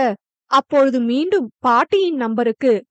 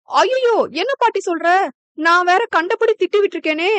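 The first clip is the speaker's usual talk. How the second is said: much higher, alarmed cry; shocked dismay; 5 semitones higher than usual. Acted. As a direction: panic at her own mistake. Shocked realization of mistake. (தவறை உணர்ந்த அதிர்ச்சி, உயர்ந்த குரல்)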